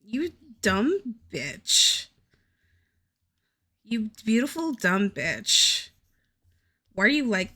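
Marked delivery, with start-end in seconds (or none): 0.0-2.1 You dumb bitch, slowly drawn out; slow self-scolding in exasperation; slow exasperated scold. Real, not acted. Scolding herself over ruined art. 3.8-5.9 beautiful stretched out affectionately; affectionate exasperated self-scolding; fond exasperated scold. Real, not acted. Scolding herself over ruined art.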